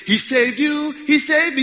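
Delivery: high, loud, chant-like quote; like a familiar song. Acted. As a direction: proclaim it like a well-known refrain. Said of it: "it's like a song that I know".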